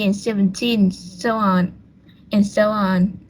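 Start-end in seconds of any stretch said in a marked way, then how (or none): 0.1-0.9 put-on seven-TEEN, weight on the end; stress on final syllable. Shown as a demonstration. Student presenter showing classmates number stress, seventeen stressed on the final syllable. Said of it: "numbers that end in teen have their stress on".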